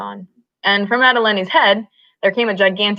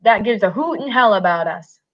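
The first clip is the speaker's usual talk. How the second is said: triumphant; 3 semitones higher than usual. Acted. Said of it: "Lenny cried in triumph".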